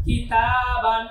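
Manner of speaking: কিতাবান with a long held তা; one-alif stretch. Shown as a demonstration. Teacher reads for learners, stretching তা in কিতাবান. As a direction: draw out the middle তা of কিতাবান. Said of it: "এখানে টান দিচ্ছি কেন".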